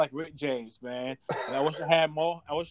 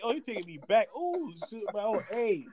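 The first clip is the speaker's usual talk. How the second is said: higher, lightly mock-thrilled; hammed-up rising anticipation; imitated excited woman; 4 semitones higher than usual. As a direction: play her getting turned on, drawing out the end. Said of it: "Oh, she's like".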